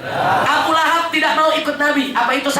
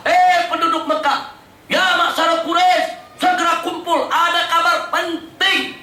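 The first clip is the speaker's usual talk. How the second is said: calling out; 4 semitones higher than usual. Retold or imitated. Prophet summons Mecca's people from Bukit Sofa, calling out. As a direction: summon the townspeople from a hilltop. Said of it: "Nabi teriak dari atas Bukit Sofa".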